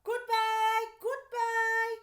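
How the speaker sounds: high, loud sing-song goodbye; cried out. A narrator's reading. Parents calling goodbye to the mailbox, high and loud. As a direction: call it out as they leave. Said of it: "cried out".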